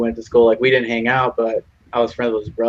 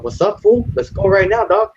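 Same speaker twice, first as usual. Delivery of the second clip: high-pitched mock tough-guy challenge; tough kid taunting; 9 semitones higher than usual. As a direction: taunt him like a cocky schoolyard thug. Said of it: "He's like".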